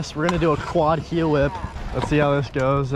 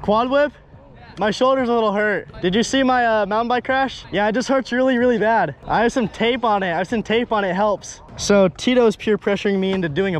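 slightly higher, whiny complaining; a light take on Jack moaning; imitating Jack; 4 semitones higher than usual. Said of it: "You gotta do it exactly like I'm doing it".

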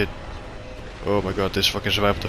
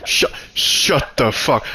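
raging. Real, not acted. Gamer raging at the game after dying. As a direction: rage at the game over and over.

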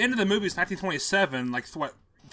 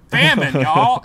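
mock Irish accent; 8 dB louder, slower than usual. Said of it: "Irish accent".

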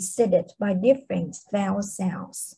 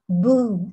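explosion boom; 4 dB louder than usual. Shown as a demonstration. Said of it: "that's for something like exploded".

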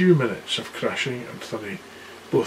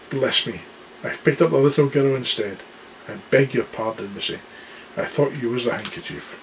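giant's voice. Acted. Giant apologises to Lucy.

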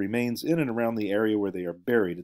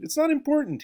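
grinning, elliptical. A narrator's reading. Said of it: "grinning, elliptical".

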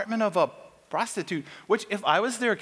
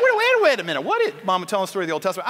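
frantic objection; 4 dB louder, much faster than usual. Retold or imitated. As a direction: jump in flustered. Spy objecting.

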